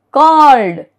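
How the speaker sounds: "called" as one syllable, ending in d; silent E. Shown as a demonstration. Teacher shows E D endings, "called" with silent E. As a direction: say "called" with no vowel before the d. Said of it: "E is silent in the verb".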